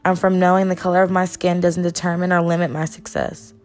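measured spoken-word poem delivery; spoken word poem, steady and proud; poem recitation. Acted. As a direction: recite it like a performance poem, each line landing. Recites a Where I'm From poem.

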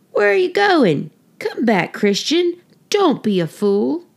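high calling out after him; shouted. A narrator's reading. Townspeople shouting after Christian, high calling. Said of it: "People who saw him shouted".

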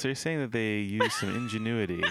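laughing. Real, not acted. Teasing while laughing.

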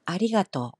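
아리가또 with the peak on 리, then falling; standard Japanese. Shown as a demonstration. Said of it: "표준어는 아리가또".

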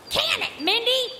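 indignant. Acted. Playful retort.

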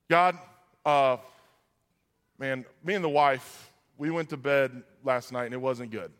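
low, halting, conversational prayer; sample prayer. Acted. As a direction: talk privately to God, feeling for the words. Models a morning prayer.

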